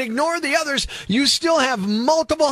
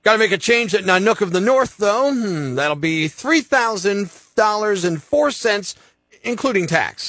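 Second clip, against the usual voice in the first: lightly voiced ticket clerk. Clerk lists the route to the child, lightly voiced agent. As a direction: read the route like a bored agent.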